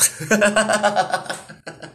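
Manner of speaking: high real laugh; real laugh, fading. Real, not acted. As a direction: burst out laughing. Laughing at own joke.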